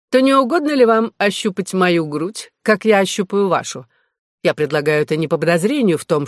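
lightly affected gentleman, lifting key phrases; a hint of mannered courtesy before the duel; жеманный щёголь-фехтовальщик. (слегка жеманная учтивость рыцаря)

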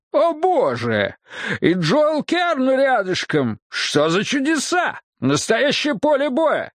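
high-pitched, wonderstruck sheriff; astonished exclaiming. A narrator's reading. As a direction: pitch it way up, marvelling at the sight. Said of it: "воскликнул Хопкинс, вытаращив глаза". (изумлённые возгласы высоким голосом)

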